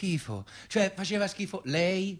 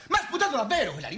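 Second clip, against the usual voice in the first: laughing outrage; 6 semitones higher, much faster than usual. Real, not acted. Outraged at being spat on.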